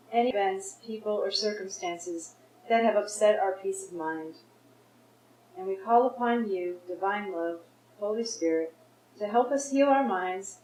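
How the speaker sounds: measured invocation, opened firmly; spoken prayer. Real, not acted. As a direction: lead a group in prayer, phrase by phrase. Leads the group in prayer.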